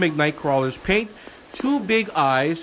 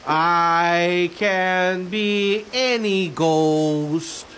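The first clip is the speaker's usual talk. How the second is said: spooky ghost voice; much slower than usual. Pretend. Spooky reading of book rhyme.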